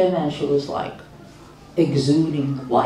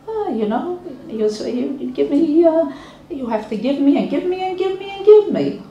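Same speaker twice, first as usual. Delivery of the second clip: high whining voice, a lot higher than her own; mock a demanding kid begging on and on; spoiled kid nagging give me give me; entitled child; 10 semitones higher than usual. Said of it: "like, you owe me".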